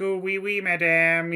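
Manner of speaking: lightly put-on fake French; fake French accent. Waiter humouring a restaurant customer, fake French accent. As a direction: play up a hint of phony French. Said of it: "fake French".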